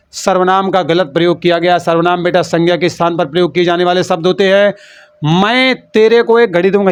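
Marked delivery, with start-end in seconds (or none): 5.4-6.9 mock wrong usage. Shown as a demonstration. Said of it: "ये तेरे को मेरे को कौन सी भाषा".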